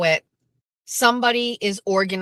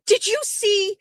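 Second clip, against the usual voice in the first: retold screaming; 11 semitones higher, slower than usual. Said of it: "somebody is screaming on the phone".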